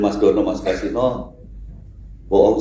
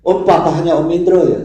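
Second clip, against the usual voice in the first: put-on higher, louder eager kid's voice, half laughing; a kid calling out to the old comedian, piping and giggly; imitating a small child; 9 semitones higher, 4 dB louder than usual. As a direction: play the little boy tugging at him. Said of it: "Dia ke depan".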